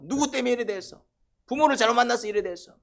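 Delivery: high-pitched acted scolding; mock accusation, pitched right up; resentful complaint. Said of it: "고통 중에 불평이 나와요".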